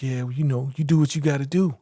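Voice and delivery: imitating a dismissive, patronizing woman. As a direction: talk down to him. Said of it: "just really patronizing him, really talking down to him".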